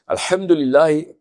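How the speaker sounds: الحمدللہ said slowly with a plain Urdu ہ; wrong Pakistani reading. Shown as a demonstration. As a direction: drag out الحمدللہ the way a regular Pakistani says it. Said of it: "میں دونوں ہی غلط پڑھتا ہوں".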